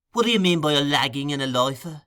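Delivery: demanding. Acted. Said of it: "demanded Mister Bolter".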